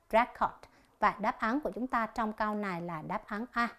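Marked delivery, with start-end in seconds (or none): 0.1-0.5 "record" stressed on REC, as a noun; first-syllable stress. Shown as a demonstration. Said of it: "Nhấn âm thứ nhất". (nhấn âm thứ nhất của "record")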